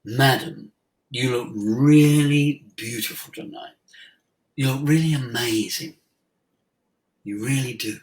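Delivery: mean every word, unhurried; sincere compliment. Retold or imitated. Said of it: "breath in".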